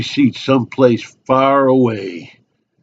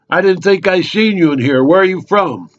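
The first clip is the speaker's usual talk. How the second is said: nosy local, pitched up; chatty barfly; 8 semitones higher, 3 dB louder than usual. Acted. Local sizing up an unknown drinker at the bar, nosy and chatty. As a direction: probe like an over-friendly bar regular.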